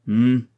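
grumbled hum. A narrator's reading. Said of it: "grommela le général".

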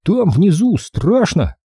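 put-on slow, high scared boy. A narrator's reading. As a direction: drag it out, afraid of the dark. Frightened boy admits fear.

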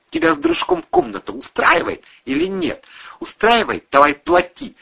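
high, loud scolding rant; angry landlady tirade. Acted. Landlady Ira tells the lodgers to pay or clear out, high furious rant. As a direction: tear into the freeloading lodgers.

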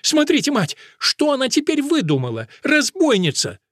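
very high, loud outraged cry; furious nun denouncing the girl; indignant shriek. A narrator's reading. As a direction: call on the mother superior in outrage. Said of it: "вскричала мать Анхелика".

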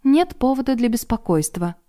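бодро; brisk and cheerful. Acted. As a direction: chirp it back brightly. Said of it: "бодро повторила".

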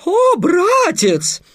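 very high, loud melodramatic falsetto; boy playing a girl in falsetto. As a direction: overact a princess in falsetto. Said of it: "воскликнул Песя". (патетичный фальцет, парень играет девушку)

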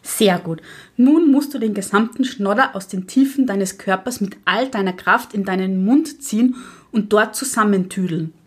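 a lightly voiced stern old witch lecturing; strict witch teacher. (Lehrerinnenhexe, leicht gespielt, streng belehrend)

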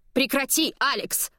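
sharp high cry of protest; shouting. Acted. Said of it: "кричит Диметра".

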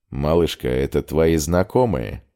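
smiling. Acted. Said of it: "улыбнулся он".

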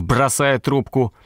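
usual speaking voice

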